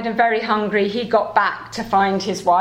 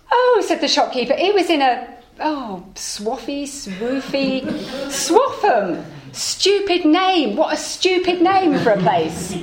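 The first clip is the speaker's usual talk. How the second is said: higher, groping for the name, slowing on it; fumbling shopkeeper; 5 semitones higher than usual. Acted. Shopkeeper struggles to recall Swaffham, higher and mocking. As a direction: stumble over Swaffham then sneer at it.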